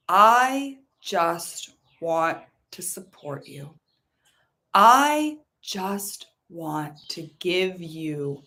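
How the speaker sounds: slow, tender promise that fades to a whisper; money's loving voice. Acted. Money reassuring the listener, slow and tender. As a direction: speak as money, soothing and kind. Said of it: "And money says to you".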